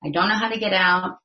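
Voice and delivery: lightly acted plea to a passer-by; retold call for help; mild mock cry for help. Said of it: "the man screams out into the road".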